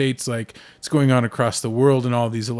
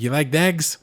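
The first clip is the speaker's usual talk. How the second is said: put-on higher, quick mumbled Irish traveller accent; Brad Pitt Irish traveller accent; 5 semitones higher, 4 dB louder than usual. To friends, imitating Brad Pitt's Irish traveller accent. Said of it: "Brad Pitt, when he talks like that".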